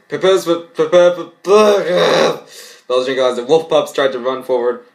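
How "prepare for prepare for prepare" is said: zombie announcer. Acted.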